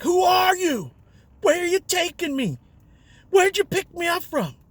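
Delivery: put-on high, loud panicked drunk questions; hammed-up frantic drunk, high and loud; freaking out. Drunk passenger panicking again.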